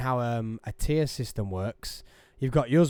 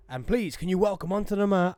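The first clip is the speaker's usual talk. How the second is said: high, booming ring announcer; 6 semitones higher than usual. Shown as a demonstration. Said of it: "when I'm like".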